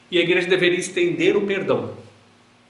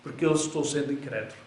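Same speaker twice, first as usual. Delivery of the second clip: tearful plea; 4 semitones lower than usual. A narrator's reading. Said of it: "se lança em lágrimas e diz".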